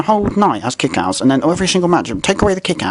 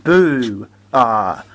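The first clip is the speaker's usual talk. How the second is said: retold boo; 3 semitones lower, 3 dB louder than usual. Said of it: "And I went".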